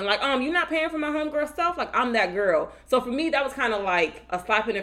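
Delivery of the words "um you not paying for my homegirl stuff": loudmouth. Retold or imitated. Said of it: "gonna loudmouth and say something".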